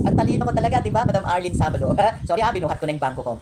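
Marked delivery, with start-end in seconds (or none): 0.1-0.8 high cackle into a boast; cackle, then brag through the laugh. Real, not acted. Vlogger gloating to her viewers, laughing while bragging.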